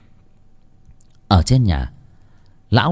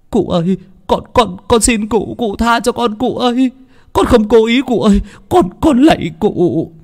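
much higher, pleading, frightened voice; begging in terror; 13 semitones higher, 4 dB louder than usual. Acted. Servant boy begging the master to stop beating him, terrified pleading. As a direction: beg for mercy as blows rain down. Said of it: "ôm đầu mà lạy lục".

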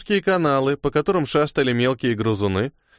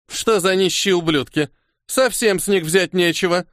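higher-pitched, disgusted complaint; annoyed; 5 semitones higher than usual. A narrator's reading. Robber finds the victims penniless, annoyed complaint. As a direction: complain in a raised, irritated voice.

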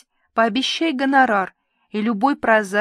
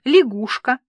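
cheerful; 3 semitones higher, 5 dB louder than usual. Acted. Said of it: "радостно сообщила я".

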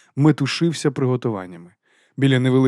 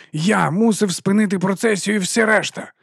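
angry berating; 9 semitones higher, 3 dB louder than usual. A narrator's reading. Vons scolding Vimes over the raven, high loud anger. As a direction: hammer each word at him.

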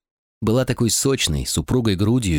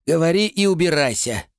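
higher, curt dismissal of the messenger; curt royal command; 8 semitones higher than usual. Acted. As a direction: send him off with a cold order.

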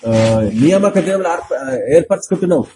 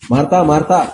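a mild warning call of Martha, Martha; gentle warning; 2 semitones lower than usual. Retold or imitated. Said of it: "రెండుసార్లు హెచ్చరిస్తుంది". (Martha, Martha అని మెల్లగా హెచ్చరించడం)

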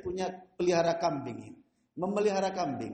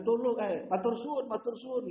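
squeaky rat in Javanese; 4 semitones higher than usual. Retold or imitated. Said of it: "kalau dijawakan".

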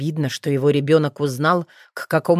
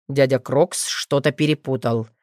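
calm, lower father's voice; even, unhurried reassurance; 4 semitones lower than usual. Acted. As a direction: soothe the boy without fuss. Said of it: "спокойно произнёс Нейтан".

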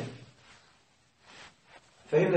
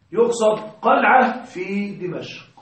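slow explanation; slower than usual. Shown as a demonstration. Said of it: "تقول قلعة؟".

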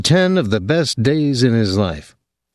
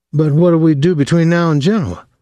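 a higher, worried question; 7 semitones higher than usual. A narrator's reading. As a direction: Dwyer fretting about the plan. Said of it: "Dwyer asked worriedly".

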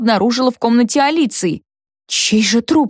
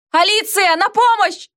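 calling for help; 11 semitones higher than usual. A narrator's reading. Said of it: "я кричала".

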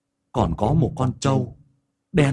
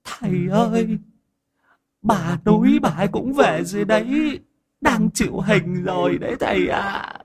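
a medium's voice pitched higher, respectful; medium speaking; 8 semitones higher than usual. Acted. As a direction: report to the master humbly. The medium reports to the master. (giọng ông đồng cao, cung kính)

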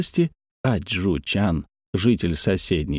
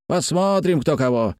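high start dropping back, moderate volume; mild challenging cry; 4 semitones higher than usual. A narrator's reading. Fighters to the oncoming crowd, mild challenging cry. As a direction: throw down a challenge with restrained force. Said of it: "кричали они".

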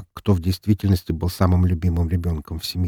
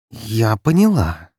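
hissed reply; 3 semitones higher, 4 dB louder, slower than usual. Acted. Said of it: "прошипела".

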